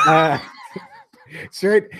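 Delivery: shrieking laugh breaking through; can't stop laughing. Real, not acted. Bursts out laughing.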